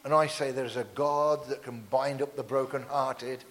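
measured preaching declaration; prophetic declaration. Real, not acted. Preacher breaks curses over the congregation, solemn prophetic declaration. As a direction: declare it over the congregation, weighting each phrase.

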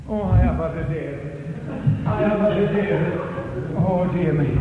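tired, groaning Moses; worn-out Moses sighing; weary Moses. Retold or imitated. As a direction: sigh like after a long day. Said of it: "Moses staggering home".

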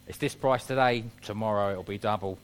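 pushy salesman pitch, lightly voiced. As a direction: push the deal like a salesman. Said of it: "that's my salesman voice".

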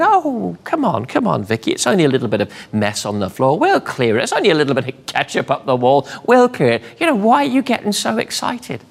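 a smug husband brushing off the mess; smug calm husband. Retold or imitated. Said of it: "calm husband going".

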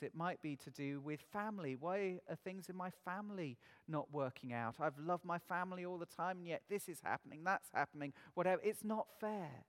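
usual speaking voice

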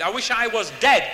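loud imitated cry of despair; retold despairing outburst. Lifer confronting the preacher, acted despairing outburst. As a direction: punch it out as his bitter wish.

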